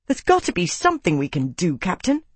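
urgent pleading protest. Acted. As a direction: push back, rising on Captain. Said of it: "Max protested".

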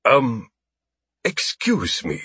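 alien voice. A narrator's reading. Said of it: "an unfamiliar voice said".

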